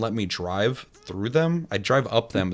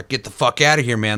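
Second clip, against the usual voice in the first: louder, a gruff mock warning from the gang; mock gang threat; 3 semitones higher, 6 dB louder than usual. Street gang NPCs warn the player away, mock yell. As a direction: shove him off, hammed-up tough guy.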